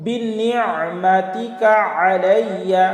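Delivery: long drawn-out chanted recitation; slow Quranic recitation. Shown as a demonstration. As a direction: intone each word slowly and reverently. Recites phrase.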